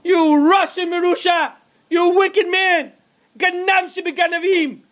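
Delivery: hammed-up shrieking at the storekeeper; high-pitched furious mother yelling at the shopkeeper; mock screaming mother. A narrator's reading. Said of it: "She was screaming".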